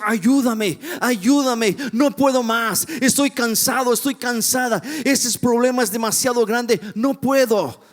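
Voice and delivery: acted desperate prayer, voice lifted; crying out to God. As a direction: plead as if at the end of your strength. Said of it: "cuando clamamos a Dios y le decimos".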